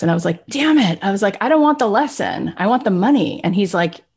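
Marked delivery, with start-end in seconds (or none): 0.5-1.0 frustrated curse. Retold or imitated. Frustrated at missing out on money. 1.4-3.4 mock whiny protest. Protesting the boss's lesson.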